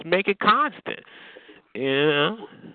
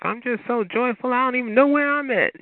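lightly voiced, higher fake-cheery caller; mock joyful; 8 semitones higher than usual. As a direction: mimic her put-on joy with a sneer. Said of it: "she was pretending like".

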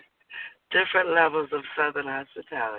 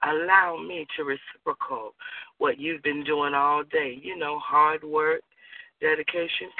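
sultry invitation; 3 dB quieter than usual. Acted. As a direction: coax a lover tenderly, unhurried. Seductive address to partner.

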